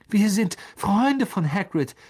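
hoch und laut gerufen; rufend. Acted. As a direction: ruf es verzweifelt laut hinüber. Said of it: "rief Harry". (Harry ruft den Spinnen laut zu)

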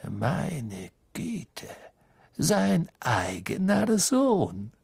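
slow, gloating mock dismay; spiteful sneer. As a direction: savour the jab. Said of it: "mit zunehmend gehässigem Lächeln".

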